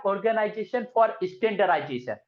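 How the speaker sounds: "Organization for Standardization" spelled out slowly, each word clear; pronounced slowly. Shown as a demonstration. Teacher slowly pronouncing "Organization for Standardization" for the class. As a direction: say "Organization for Standardization" slow and deliberate. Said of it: "pronounce करते time O आगे आता है".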